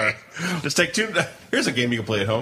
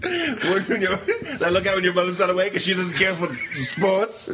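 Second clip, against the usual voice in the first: higher, laughing overexplained excuse; laughing mock excuse; 5 semitones higher than usual. Kid explaining to dad about hidden magazines, laughing. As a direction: giggle through a fake alibi.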